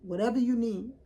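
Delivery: what a real friend would say, mock church fervor; preachy supportive friend. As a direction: rebuke it like a prayer warrior. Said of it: "a friend would have said".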